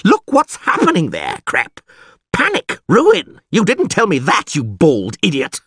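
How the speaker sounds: high, loud angry tirade; furious rant. Acted. Mayor to the bald priest, furious and panicked.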